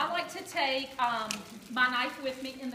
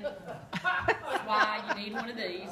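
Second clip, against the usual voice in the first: laughing; 2 semitones lower, much slower than usual. Real, not acted. Laughing punchline about cantaloupe.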